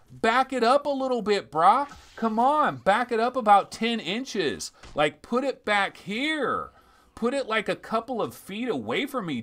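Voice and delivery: high-pitched, pleading exasperation; worked-up, high-pitched complaint; exasperated rant. Acted. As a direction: rant like you're telling someone off for crowding you. Ranting at the too-close text.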